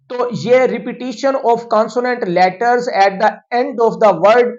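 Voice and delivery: reads the English definition word by word, very slowly; slow, deliberate teacher dictation. Shown as a demonstration. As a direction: spell it out slowly so students can write it down. Reading the definition again slowly.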